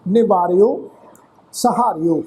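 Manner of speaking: ਨਿਵਾਰਿਓ, ਸਹਾਰਿਓ with a short i after the ਰ, then open ਓ. Shown as a demonstration. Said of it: "ਰਾਰੇ ਨੂੰ ਸਿਹਾਰੀ ਲੱਗ ਕੇ".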